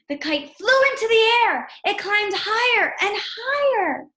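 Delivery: storyteller building wonder; excited narration. A narrator's reading. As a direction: let the voice soar with the kite.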